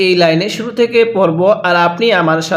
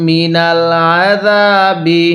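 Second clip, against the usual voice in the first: Quran recitation; slower than usual. Shown as a demonstration. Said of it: "কিভাবে পড়ব?".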